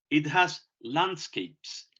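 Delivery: very slow, word-by-word dictation; slow model sentence. Shown as a demonstration. Teacher dictates an example sentence to students, very slowly. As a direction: say each word slowly so students can copy. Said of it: "teacher models sentence slowly".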